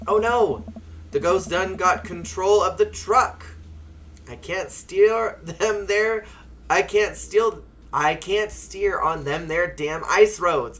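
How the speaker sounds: high, slow, loud dramatic trucker; panicked ghost-truck driver. Acted. TV trucker losing control to ghosts, hammed-up alarm.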